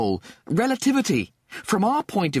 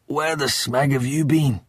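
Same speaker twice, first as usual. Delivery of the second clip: higher-pitched irritated demand; reproach; 5 semitones higher than usual. Acted. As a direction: demand an explanation for being left waiting. Old Lister scolds late rescuers.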